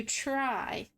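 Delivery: "try" drawn out slowly for emphasis; stress on TRY. Real, not acted. Host promising viewers an attempt, stressing "try". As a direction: lean long and hard on the word "try". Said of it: "try being the key word".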